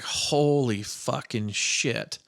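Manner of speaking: drawn-out, slow awestruck curse; slow-motion retold disbelief; retold amazement. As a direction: stretch each word out in mock wonder. Retelling childhood amazement at pink foam.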